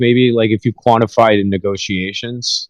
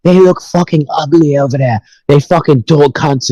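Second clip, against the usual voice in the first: mock a singer; 5 semitones higher than usual. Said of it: "he'd be like".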